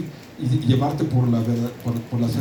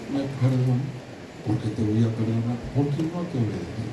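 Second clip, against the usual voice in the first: put-on much softer, small child's voice; a lightly voiced sorry child; father voicing his daughter asking forgiveness, softer; repentant little girl; 3 semitones lower, 5 dB quieter than usual.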